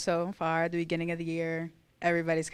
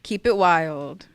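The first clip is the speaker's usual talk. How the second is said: stiff memorized speech; 9 dB louder, slower than usual. Real, not acted. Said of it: "All right, here we go".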